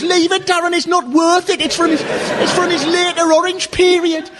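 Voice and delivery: high-pitched mock girlfriend voice; girlfriend pleading. Girlfriend pulling Darren away from a fight, high mock plea. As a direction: squeak it like a girlfriend holding him back. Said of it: "While his girlfriend goes".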